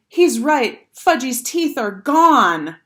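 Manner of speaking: high, loud wail, slowing at the end; horrified scream. A narrator's reading. Girl discovering the missing teeth, horrified scream. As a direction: cry out in alarm, drawing out the last words. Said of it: "Sheila screamed".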